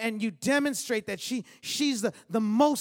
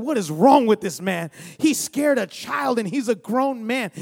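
put-on indignant child; 7 dB louder than usual. Boy upset at dad after being scared, loud indignant cry. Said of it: "I was in my feelings".

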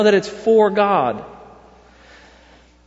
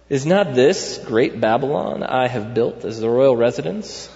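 cocky voice; 5 semitones lower than usual. Retold or imitated. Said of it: "This is my cocky voice".

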